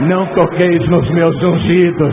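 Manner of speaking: loud, proclaiming preacher voice; preaching. Acted. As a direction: declare it like scripture. Preaching scripture at full force.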